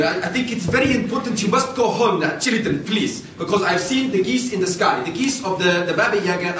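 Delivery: a hint of a worried old man; old man warning. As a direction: plead with them to hurry home. Old man warns children.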